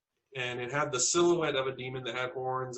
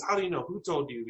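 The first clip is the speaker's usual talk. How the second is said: mild mock upset, pitched up at first; retold upset questioning; 3 semitones higher, faster than usual. Grandmother questions the child after the phone call, mildly upset. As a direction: demand answers as an upset grandmother, understated. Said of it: "she got very upset with me".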